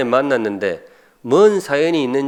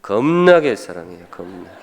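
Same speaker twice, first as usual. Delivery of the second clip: Jeolla dialect; 4 semitones lower, 4 dB louder than usual. Shown as a demonstration. Preacher quoting his wife's region, Jeolla dialect. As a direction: demonstrate Jeolla dialect with a stretched 겁나게. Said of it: "전라도 말로는 뭐라는가 하면".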